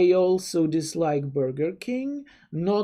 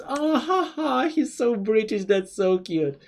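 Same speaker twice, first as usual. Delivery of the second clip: higher, laughing, gushing coo; gushing over British; 4 semitones higher than usual. Retold or imitated. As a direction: squeal over how cute he sounds. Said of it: "and I went".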